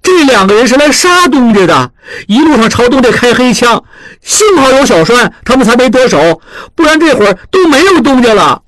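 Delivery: a hint of a flustered youth raising his voice; agitated apprentice shouting. A narrator's reading. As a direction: burst out in alarm at the elders. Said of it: "大声嚷嚷起来".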